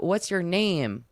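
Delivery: lightly voiced elderly psychic; cute little old man. Old psychic asking a lady her name, gentle old-man voice. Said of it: "like a cute little old man".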